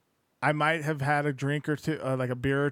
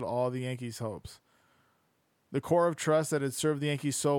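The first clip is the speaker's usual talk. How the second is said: steady audiobook-style reading; narrating a sports history book aloud; book narration. Acted. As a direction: read the passage out evenly to listeners.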